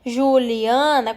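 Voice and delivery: Juliana slowly as Ju-li-a-na; syllable by syllable. Shown as a demonstration. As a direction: stretch out each syllable of Juliana. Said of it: "Separar os pedacinhos da palavra". (Juliana devagar, em pedacinhos)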